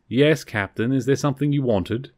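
a mild, offhand brush-off; lightly voiced bored Spock, can't be bothered; understated uncaring reply to the captain; leave me alone. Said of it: "like, leave me alone voice".

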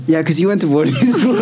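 imitating a friend through laughter; teasing quote. Retelling a friend's boarding-school jibe, laughing. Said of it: "and Emma goes".

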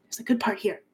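unvoiced whisper to the class; absorbed professor whispering; whispered hush. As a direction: shush the students, whispering. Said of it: "Professor Gruntilda's like".

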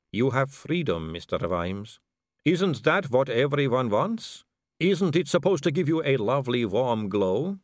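a vampire noblewoman purring at a dangling man; suave vampire lady. Acted.

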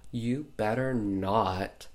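slow, menacing warning; mock threat. Barb threatening Hogarth.

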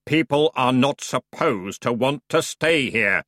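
slow, irritated ferryman snap; curt underworld boatman; snapping ferryman. Acted. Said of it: "snapped the ferryman".

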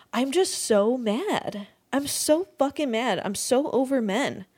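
heated, wound-up rant; fed up with men, venting her real anger. Real, not acted. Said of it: "can you tell I'm mad?".

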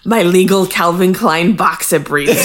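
lightly hammed TV lawyer dad; a touch of comic lawyer impression; Sandy Cohen. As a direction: play the proud lawyer, lightly put on. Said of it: "getting excellent at Sandy voice".

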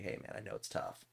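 hushed, voiceless aside; whispering. Retold or imitated. Streamer privately messaging upset kid, retold in a hushed whisper. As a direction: drop to a soft, confidential murmur. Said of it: "I'm whispering".

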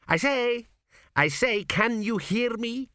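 put-on high, slow ghostly old king; an anxious spirit hurrying to be heard; dead king's voice. A narrator's reading. Dead king urges his son, high and anxious.

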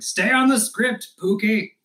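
a nagging voice urging someone back to the script; mock caller voice. Mimicking a caller telling her to stay on script, high and pushy.

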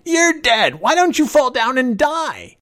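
put-on very high, loud, indignant child; little boy crying out. A narrator's reading. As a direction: shout in a frustrated small boy's voice. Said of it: "he cried".

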